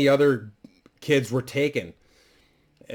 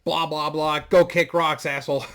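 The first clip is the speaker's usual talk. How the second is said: put-on a lightly higher, bratty kid voice; bratty grandson; 4 semitones higher than usual. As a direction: toss it off like a rude little kid. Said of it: "And he's like".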